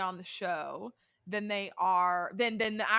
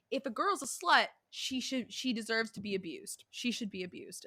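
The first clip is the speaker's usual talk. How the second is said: put-on Jersey accent. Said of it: "in her Jersey accent".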